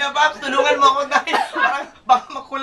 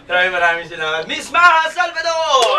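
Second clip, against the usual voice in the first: shouted announcement. Real, not acted. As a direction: belt out her name like an emcee. Host thanks guest, announcing.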